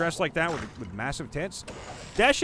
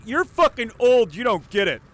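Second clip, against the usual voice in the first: louder, higher taunting; bratty kid; 5 semitones higher, 9 dB louder than usual. Pretend. Kids mocking an older adult, bratty.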